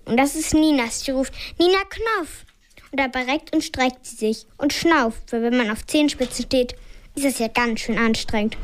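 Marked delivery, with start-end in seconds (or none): 1.6-2.5 put-on high, eager toddler cry; a hint of a small child crowing; crowing call. A narrator's reading. Little Nina wants to press the button, high crowing call. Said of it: "kräht plötzlich eine andere Stimme".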